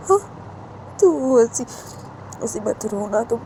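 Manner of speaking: calm someone who is crying, repeating gently but insistently; soothing. Acted. Uma comforting weeping Sanju, promising to stay, soothing. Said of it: "Sanju को शांत करवाने लगती है".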